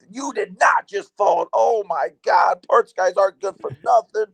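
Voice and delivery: high-pitched mock disbelief; imitated incredulous coworker. Coworker teases parts guy who fell from semi, incredulous. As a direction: act out a scornful witness, pitched well up.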